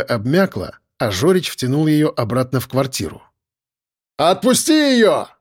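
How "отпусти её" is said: high, slow commanding shout. A narrator's reading. Narrator shouting at the gunman to let her go. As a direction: shout up at the window. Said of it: "крикнул я".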